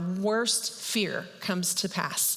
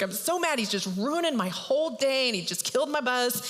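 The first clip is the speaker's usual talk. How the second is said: higher-pitched whiny outrage, not shouted; mock anger; 4 semitones higher than usual. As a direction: imitate a fuming man complaining. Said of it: "he's so mad".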